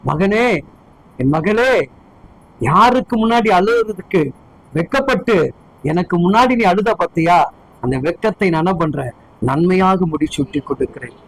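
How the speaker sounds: lightly voiced God, pitched low; a hint of a tender Father's low voice; God addressing his child. God to a child who wept in private, low consoling voice. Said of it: "அவர் பார்க்கிறாரு".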